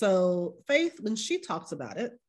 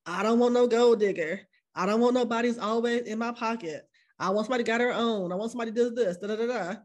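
mock man's demands. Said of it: "men are always moving the bar".

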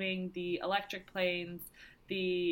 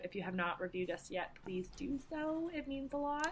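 soft pleading whisper; 7 semitones higher, 6 dB quieter than usual. Acted. Pleading for reviews.

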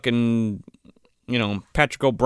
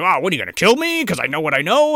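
indignant, higher-pitched quick retort; 3 semitones higher, faster than usual. Retold or imitated. Employee storming off challenges his bosses, mock-indignant. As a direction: fire it back fast, mock-indignant. Retells an angry character storming off.

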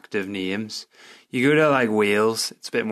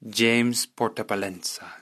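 lightly Spanish-accented name; put-on Spanish accent. Shown as a demonstration. Podcaster trying out a Spanish surname, Spanish accent. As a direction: roll the place name out with a Spanish lilt. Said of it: "I'm putting on this accent".

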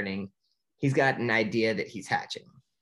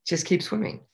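higher, sing-song and carefree; cheerful Dory; 10 semitones higher than usual. Retold or imitated. Dory encouraging Marlin into the dark, cheerful sing-song. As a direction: chirp it like an upbeat little fish. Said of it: "Dory's all cheerful and happy".

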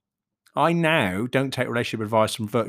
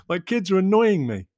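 laughing mock outburst; 6 semitones higher than usual. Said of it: "It's okay to say".

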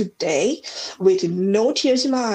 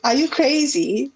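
pitched-up, disbelieving "are you crazy"; mock incredulous; 5 semitones higher than usual. People mocking her for flying the dog over, mock incredulous. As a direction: play the doubters, higher and a bit slower. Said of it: "And so people were like".

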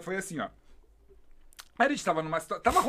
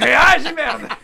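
loud teasing yell, higher; louder playful provocation; mock provoking shout; 8 semitones higher, 12 dB louder, much slower than usual. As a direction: bark it like a dare.

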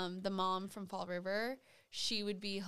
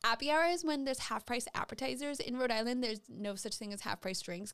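Rebecca voice; 2 semitones higher than usual. Retold or imitated. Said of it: "that right there was Rebecca".

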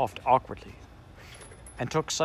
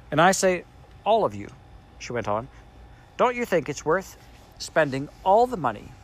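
put-on raised, hurried girl pleading; eager Anthea; 5 semitones higher, 4 dB louder than usual. A narrator's reading. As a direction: coax them all to agree.

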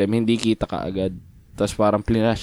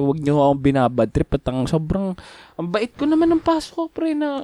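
retold scolding; 4 semitones higher than usual. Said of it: "pinagtuturo ko".

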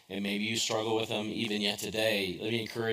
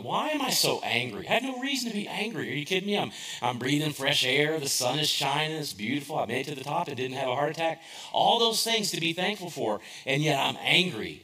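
higher, worked-up retelling of his own frustration; mock outrage at himself, pitched up; exasperated inner rant; 4 semitones higher than usual. Pastor reliving his anger atop the hill, raised and animated. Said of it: "This is what I'm thinking".

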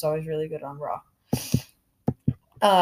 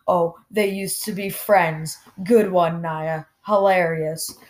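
sarcastic; slower than usual. Real, not acted. Sarcastically mocks wrestler's claim.

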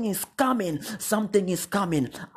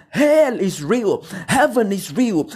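forceful proclamation; 5 dB louder than usual. Acted. Preacher proclaiming hell and heaven.

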